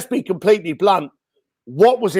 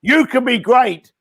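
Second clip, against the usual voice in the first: hyped motivational speaker; 6 semitones higher than usual. Retold or imitated. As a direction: preach it like a stage guru. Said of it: "motivational speakers going".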